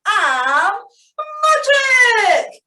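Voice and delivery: lightly voiced happy sunflower; Sunny Sunflower voice. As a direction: play a perky little sunflower. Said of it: "said the sunflower".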